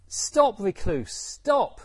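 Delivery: loud, high cry to halt; exasperated shout. Acted. Angulimala to the Buddha he can't catch, exasperated shout. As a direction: call out sharply after someone you can't catch. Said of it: "he stops out of breath".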